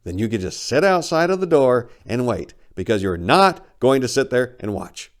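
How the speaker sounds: loud, angry telling off; angry retort. Acted. Narrator ordering the bird out before slamming the door, angry. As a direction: snap back at the bird. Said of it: "I slammed the bathroom door".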